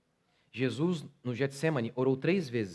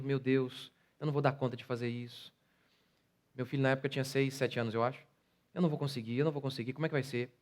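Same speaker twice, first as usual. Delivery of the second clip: scared prayer; 4 dB quieter, faster than usual. Retold or imitated. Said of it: "Apavorado, com medo".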